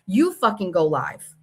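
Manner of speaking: ordinary talk, nothing marked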